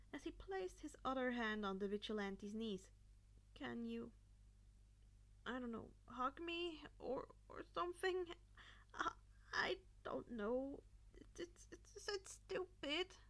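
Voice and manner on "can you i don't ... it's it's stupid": whispered, halting and embarrassed; quiet embarrassed reply. A narrator's reading. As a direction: whisper the awkward request, ashamed to ask. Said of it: "Karma replied quietly".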